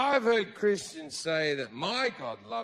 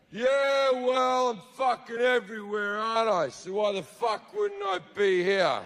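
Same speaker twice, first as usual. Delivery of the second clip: brash God; 2 semitones higher than usual. Retold or imitated. God answering partygoers.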